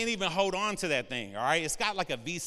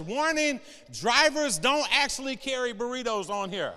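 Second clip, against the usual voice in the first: label read aloud; 5 semitones higher, 3 dB louder than usual. Pretend. Reading a truck label aloud.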